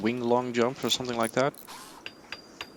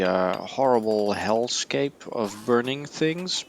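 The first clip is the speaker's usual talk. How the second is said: talking through a yawn; slower than usual. Real, not acted. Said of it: "I'm yawning so much this evening".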